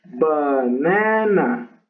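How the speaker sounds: "banana" very slowly, syllable by syllable; drawn-out teaching demo of "banana"; sounding out. Shown as a demonstration. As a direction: stretch each syllable of "banana" to find the accent. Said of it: "Y dices así".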